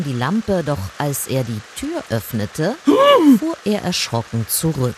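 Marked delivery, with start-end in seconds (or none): 2.8-3.3 loud, high gasp of shock; sudden horrified intake of breath; startled gasp. A narrator's reading. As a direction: gasp sharply in fright. Miller startled on opening the door.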